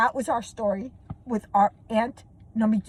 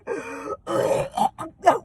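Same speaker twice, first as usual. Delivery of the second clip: gasp; 4 semitones higher than usual. Retold or imitated. Reaction to finding the armadillo.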